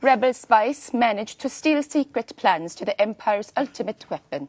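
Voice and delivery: lightly voiced Norwegian accent. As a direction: read it with a Norwegian lilt.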